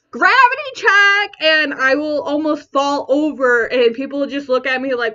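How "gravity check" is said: higher-pitched mock body alert; body's alert. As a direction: call it out like a lightly voiced warning. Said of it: "my body will be like".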